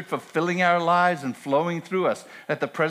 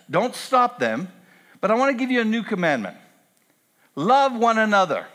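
rising, urgent paraphrase of Jesus, higher and louder; voicing Jesus; 3 semitones higher, 3 dB louder than usual. Pastor voicing Jesus to the disciples, urgent and building. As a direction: build until the final command rings out. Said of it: "Notice Jesus says".

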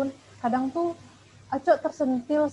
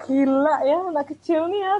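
louder, higher astonished thought; acted amazement; 5 semitones higher, 8 dB louder than usual. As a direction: marvel aloud at a little kid. Acted amazed thought at child's gift.

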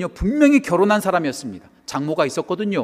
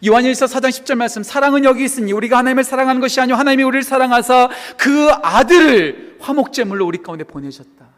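loud, raised, driving recitation; impassioned scripture reading; 7 semitones higher, 7 dB louder than usual. Real, not acted. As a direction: proclaim the verse from the pulpit. (힘차게 선포하는 성경 봉독)

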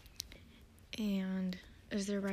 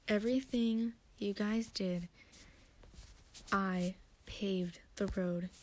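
slow, spaced-out imitation of a villain's reveal; slow, deliberate retelling; slower than usual. Villain revealing his plan to the two, slow and deliberate. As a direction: let each phrase land with pauses. Retold villain's grave revelation.

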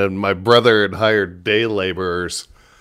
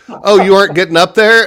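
imitating laborer; 9 semitones higher, 5 dB louder, faster than usual. Laborer's question retold.

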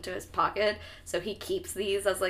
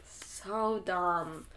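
soft, voiceless whisper; whispered disbelief; 2 semitones lower, 6 dB quieter than usual. Real, not acted. Cohost judging clueless Harry, whispered exasperation.

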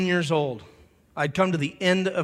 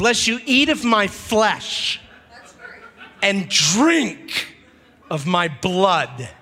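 solemn Jesus voice; 4 semitones higher, 4 dB louder, much slower than usual. Acted. Voicing Jesus' solemn warning.

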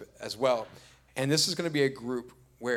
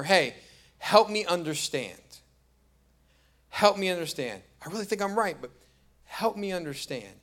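gentle asking; 5 semitones higher than usual. Retold or imitated. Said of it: "asking her".

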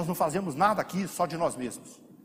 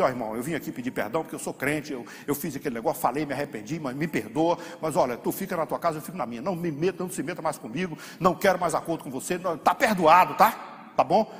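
curt half-hearted apology. Retold or imitated. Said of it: "mas diz assim".

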